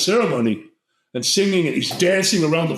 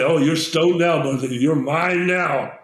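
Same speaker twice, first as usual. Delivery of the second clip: wicked shaman; slower than usual. Retold or imitated. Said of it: "It was wicked".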